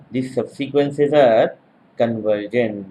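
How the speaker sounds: measured note-taking pace with falling close; slow dictation. Real, not acted. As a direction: dictate it slowly, pause before the final word. Dictating conclusion for note-takers.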